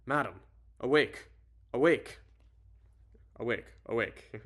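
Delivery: put-on amateur British accent, calling out; loud British wake-up calls, easing off at the end. Arthur waking madam at her door, attempted British accent. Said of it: "why can't I do a British accent".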